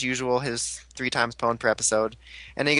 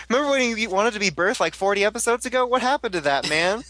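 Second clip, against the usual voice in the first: mocking dude; 7 semitones higher than usual. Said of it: "he's like".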